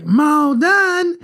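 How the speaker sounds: put-on small child's high, slow, drawn-out Southern call; exaggerated Southern twang. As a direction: holler it slowly, high-pitched, in a Southern twang. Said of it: "it sounded so Southern".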